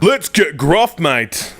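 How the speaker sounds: broad gruff Australian mate. Shown as a demonstration. YouTuber testing whether Australians can do gruff, Australian accent. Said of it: "That's Australian".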